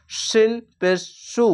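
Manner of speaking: সু with a long hissing s, slowly; hissed s, drawn out. Shown as a demonstration. Teacher demonstrating to pupils, a long hissed সু. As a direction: stretch the s in সু. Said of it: "ওপর তালুর দিকে মিডিলে থাকছে".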